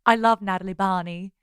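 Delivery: American doing a British accent; light mock-British voice. Shown as a demonstration. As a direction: put on a British accent for show. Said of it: "That's my British accent".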